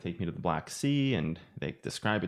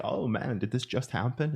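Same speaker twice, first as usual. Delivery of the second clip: excited; 5 semitones higher than usual. Retold or imitated. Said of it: "I get so excited".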